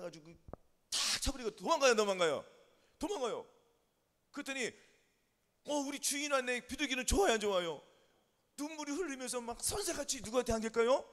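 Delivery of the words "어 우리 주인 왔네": high, happy exclamation; delighted pigeon. Acted. Pigeon seeing its owner arrive, acted delight. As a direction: voice a pigeon's glad surprise.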